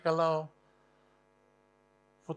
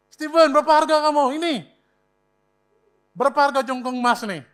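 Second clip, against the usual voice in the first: calling out; 4 semitones higher, 6 dB louder, faster than usual. Acted. Jesus calling out prices.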